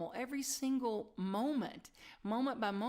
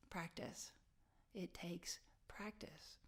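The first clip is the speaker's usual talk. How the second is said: very soft, slowing toward a whisper; hushed; 3 semitones lower, 13 dB quieter, slower than usual. Real, not acted. Speaker reminding listeners it takes practice, hushed. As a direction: drop it down gently and slowly. Earnest hushed repetition to congregation.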